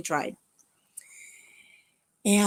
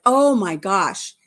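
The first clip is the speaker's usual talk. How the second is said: excited inner voice; 3 semitones higher, 4 dB louder than usual. Retold or imitated. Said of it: "It's like".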